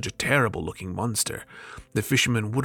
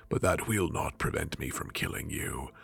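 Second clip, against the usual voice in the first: stern jinn; 6 semitones lower than usual. Acted.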